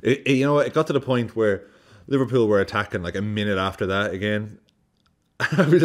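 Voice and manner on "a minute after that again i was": ordinary delivery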